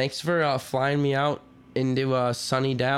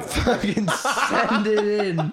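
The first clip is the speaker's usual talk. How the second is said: slow, drawn-out mocking imitation, a bit higher; mock echo; 4 semitones higher, much slower than usual. Podcaster echoing the quarterback's outtake, slow mocking imitation. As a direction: stretch it out in mockery, laughing.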